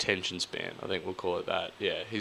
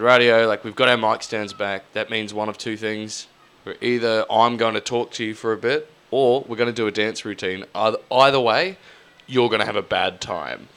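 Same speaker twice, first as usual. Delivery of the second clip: mock host address; 5 dB louder than usual.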